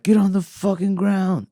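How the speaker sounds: high, drawn-out mock yell; strained high-pitched order, no real volume; retold police command.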